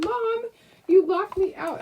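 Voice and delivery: high mock whiny dog voice; voicing the dog. Speaking for the dog who cried at the door, high mock whine. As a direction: play the locked-out puppy complaining. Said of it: "She's like".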